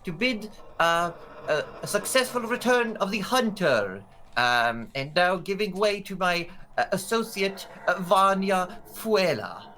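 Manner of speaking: high-pitched gnome addressing a crowd; high, hesitant little official with ums and uhs; gnomish spokesman. Acted. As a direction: plead for calm, then stumble through formal introductions. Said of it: "a small gnomish fellow".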